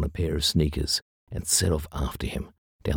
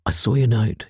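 high, louder, anxious quaver; 8 semitones higher, 6 dB louder than usual. A narrator's reading. Lucy frightened, to her partner, quavering. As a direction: voice trembling with worry. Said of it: "she quavered".

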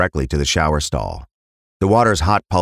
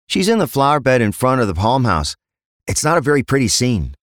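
higher-pitched junior officer; uniformed constable; 7 semitones higher than usual. Acted. Constable briefing the inspector at a crime scene, higher-pitched officer voice. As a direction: report to a superior in a raised pitch.

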